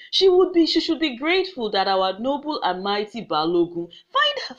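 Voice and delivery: angry command. Acted. Chief orders flogging.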